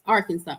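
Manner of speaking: Arkansas said AR-kin-saw; spoken pronunciation. Shown as a demonstration. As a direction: end Arkansas in "saw", silent final s. Demonstrating two ways to say it.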